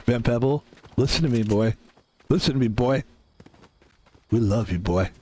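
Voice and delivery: low mock fan voice; lightly voiced low-pitched fan; insistent fan. Voicing insistent fans calling him boy.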